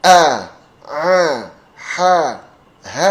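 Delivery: A drawn long, lips smiling. Shown as a demonstration. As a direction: stretch the A out. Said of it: "ini agak ditarik". (A agak ditarik)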